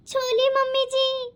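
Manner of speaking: छोली said with a ch sound for the s of सॉरी and an l for the r, high and slow; a small, shy, childlike lisped छोली mummy जी; lisped छोली instead of सॉरी, said timidly; lisping apology. Acted. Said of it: "ये तो तोतली है".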